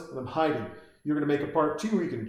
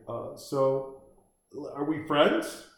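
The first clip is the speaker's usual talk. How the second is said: higher-pitched, tentative doctor imitation; mock terrified; 4 semitones higher than usual. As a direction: play a nervously fascinated doctor coaxing a killer. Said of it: "this guy is just terrified".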